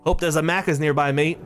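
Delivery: light mock Australian accent, teasing a friend; a hint of an Australian bloke, jokey; joking Australian accent. Friend jokes about fast food in Australian accent. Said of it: "jokingly said in an Australian accent".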